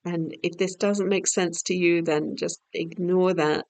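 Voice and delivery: calm, measured yoga nidra voice; unhurried, soothing instruction; guided meditation. Real, not acted. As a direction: gently lead their attention, pausing between phrases. Leads yoga nidra guidance.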